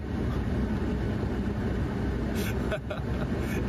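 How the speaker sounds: short mocking laugh, breathy; scoffing laugh at the silence; sarcastic laugh. Real, not acted. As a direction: laugh it off with scorn. Laughs at the no comment.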